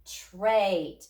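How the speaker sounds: trait said quickly as one word; said fast. Shown as a demonstration. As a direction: snap trait together quickly. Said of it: "Say it fast".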